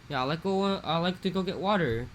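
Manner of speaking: put-on casual local-kid Pidgin to a teacher; Pidgin slip. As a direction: kid speaking Pidgin in class, Hawaiian Pidgin. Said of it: "you accidentally go".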